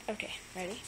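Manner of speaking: hushed breathy whisper. Real, not acted. Owner whispering while waiting for the sneak attack. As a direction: whisper so the cat won't hear.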